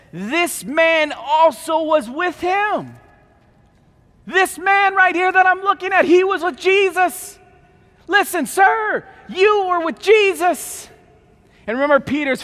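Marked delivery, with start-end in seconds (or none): 0.1-2.9 put-on slow, pointed accusing girl; servant girl accusing. Servant girl at the fire accusing Peter, slow and pointed. 4.2-10.9 high, loud insistent accusation; loud accusing cry. Acted. Servant girl confronting Peter by the fire, high loud accusing. Preacher acts girl's accusation.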